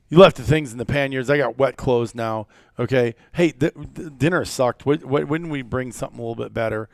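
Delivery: a hammed-up entitled hunter complaining; pissy complaining client. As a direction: play the whiny client laying into his guide. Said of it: "I'm pissy with him".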